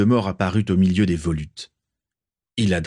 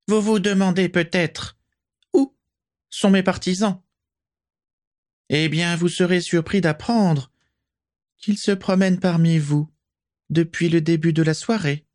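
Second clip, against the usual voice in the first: silky, hissing, much higher voice; a sweet-voiced villain, high and sibilant; soft high hissing voice; 9 semitones higher than usual. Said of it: "de sa voix doucereuse, aiguë et sifflante".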